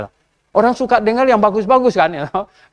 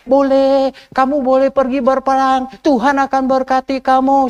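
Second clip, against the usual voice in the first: higher, eager yes-man voice; false prophets flattering; 5 semitones higher than usual. Retold or imitated. False prophets flatter king Ahab, eager tone. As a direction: sweet-talk the king into war. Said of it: "semuanya bilang apa".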